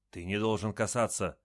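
plain reading voice

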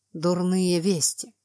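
slow, creaky, grating voice. Acted. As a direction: creak out the bad news. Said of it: "скрипучим голосом".

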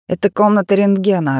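a creepy eager guide; eager odd voice. A narrator's reading. Kostik eager voice.

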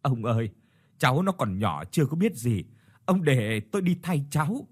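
put-on gentle, earnest plea for the boy; old father pleading to take his son's place, imploring. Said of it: "nài nỉ".

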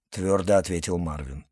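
ordinary delivery, nothing marked

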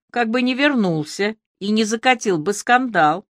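ordinary delivery, nothing marked

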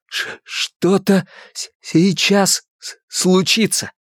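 slow, strained stammer; stutter. A narrator's reading. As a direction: force each word out. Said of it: "старался выдавить из себя слова".

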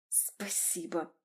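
low hissed thanks through clenched teeth. A narrator's reading. Woman in labour hisses thanks through gritted teeth. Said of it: "Я прошипела сквозь зубы".

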